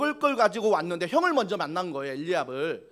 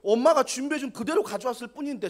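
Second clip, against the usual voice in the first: angry protest; 3 semitones higher than usual. Retold or imitated. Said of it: "저 같으면 뭐 화를 냈거든요".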